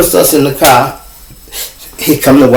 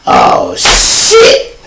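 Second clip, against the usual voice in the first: whispered; 8 semitones lower than usual. Retold or imitated. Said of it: "I'm like".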